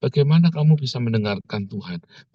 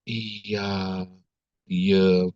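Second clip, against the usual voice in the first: minimal reply; 6 semitones lower, 4 dB quieter than usual. Retold or imitated. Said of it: "nanti Ana cuma".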